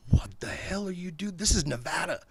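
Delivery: startled, hushed outburst; alarmed stage whisper; shocked whisper-shout. Retold or imitated. A musician shocked at weed.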